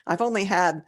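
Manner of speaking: slurring. Real, not acted. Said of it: "I'm slurring my words already".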